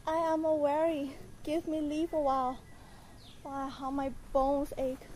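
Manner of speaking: tired and winded; out of breath. Acted. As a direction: puff out the words, weary. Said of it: "Do you not see that I am out of breath?".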